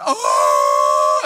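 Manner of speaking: long, loud, high cry; imitated wail. Healed man sitting in tears, imitated loud wail. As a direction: let out a sustained overwhelmed wail. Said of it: "he's just sitting there going".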